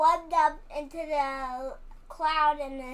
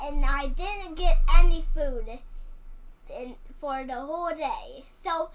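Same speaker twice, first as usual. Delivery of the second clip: Toad Man pleading. Pretend. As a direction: whine it out like an exhausted fighter begging for food. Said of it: "And Toad Man's like".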